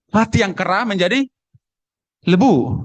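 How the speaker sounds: put-on Sumatran accent, final consonants dropped; Sumatran dialect. Preacher mimicking a church brother from Sumatra, Sumatran dialect. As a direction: say kera and lebu with Sumatran clipped endings. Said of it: "karena faktor dialek".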